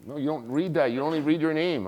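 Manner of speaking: exasperated correction. Retold or imitated. Girlfriend corrects his script reading, exasperated.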